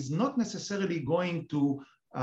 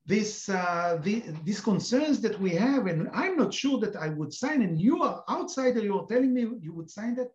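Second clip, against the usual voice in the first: mildly indignant, higher-pitched retort; retold fury; 4 semitones higher than usual. American official rebuking an outsider for contradicting him, mildly furious. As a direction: act out someone's angry protest without shouting. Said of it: "he was furious at me".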